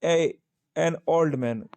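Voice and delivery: teacher spelling out the sound slowly; slow and deliberate, leaning on ओल्ड; slow, careful pronunciation. Shown as a demonstration. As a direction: stretch out एन ओल्ड मैन for the class. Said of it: "ए की ध्वनि आ रही है".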